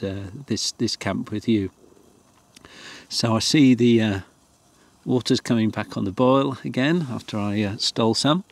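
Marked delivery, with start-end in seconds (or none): 3.1-8.4 slurping a hot drink between words; slurping hot coffee. Real, not acted. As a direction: sip noisily while talking. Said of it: "Sorry for the slurping noises".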